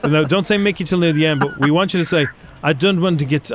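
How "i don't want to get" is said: mistaken mock French on the whole phrase; slightly French delivery; French accent. Shown as a demonstration. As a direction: put it all in a light French accent. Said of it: "no, you have to say normal".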